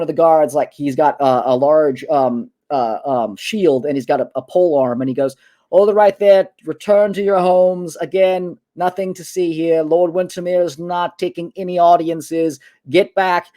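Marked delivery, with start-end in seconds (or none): 5.7-13.5 guard calling out over a crowd, higher pitch; tired crowd-control call, voice pitched up; hoarse yelling guard. Acted. Guard turning people away from the gate, hoarse yelling. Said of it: "He's just yelling out kind of general things".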